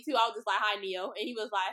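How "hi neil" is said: calm hi. Retold or imitated. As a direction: say "Hi, Neil." coolly, like it's no big deal. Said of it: "I said it so calmly".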